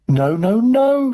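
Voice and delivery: high, loud cry climbing in pitch; alarmed shout. A narrator's reading. Mister Wonka stopping the running boy, alarmed shout. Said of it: "shouted Mister Wonka".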